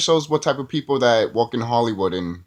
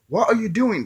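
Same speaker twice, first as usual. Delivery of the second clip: much higher, baffled question; incredulous; 11 semitones higher than usual. Retold or imitated. Viewer reacting to Lois Lane, high incredulous question. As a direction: ask it in mock disbelief. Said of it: "I'm just like".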